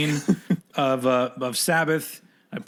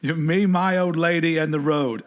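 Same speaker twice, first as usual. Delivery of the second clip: British roadie quote; 2 semitones higher than usual. Retold or imitated. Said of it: "he goes".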